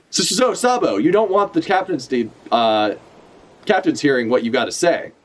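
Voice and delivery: reading Ivankov's line with a mock stutter on so; stammering villain line, lightly voiced. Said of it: "this stutter is so bad for, for Ivankov".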